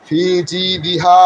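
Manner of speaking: ফি জি দি হা with the হা drawn from the throat; throaty ha. Shown as a demonstration. Teacher to class: slow demo, হা from the throat. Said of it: "সে পর্বে গলার ভেতরে".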